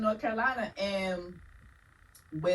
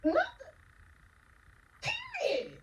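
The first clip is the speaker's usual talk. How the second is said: curt dismissal; slower than usual. Retold or imitated. Retelling her curt refusal.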